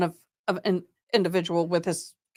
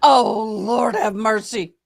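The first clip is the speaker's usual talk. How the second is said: weary plea; 4 dB louder, slower than usual. Real, not acted. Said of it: "I say that literally".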